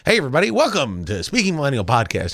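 lightly hokey, quickened show-opener greeting; a touch of old-time announcer. Retold or imitated. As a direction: imitate your own hokey podcast intro. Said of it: "Are you gonna do it in that voice?".

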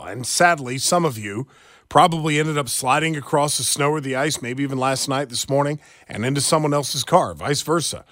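upbeat live radio ad read. Acted. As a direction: sell the body shop warmly to listeners. Live read for a body shop.

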